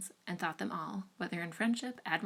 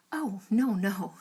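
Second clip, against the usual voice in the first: 1 careless laugh; 8 dB louder, much slower than usual. A narrator's reading. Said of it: "laughing as carelessly as she could".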